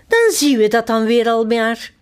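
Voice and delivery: bright, breezy queen line; cheerful. Acted. Queen brushes off the footman's warning, cheerfully. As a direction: toss it off lightly and happily. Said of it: "zegt de koningin opgewekt".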